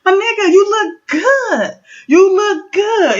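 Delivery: high-pitched, proud praise; retold proud cheering-on, pitched high. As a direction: gush proudly, drawing out the compliment. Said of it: "I was proud of her".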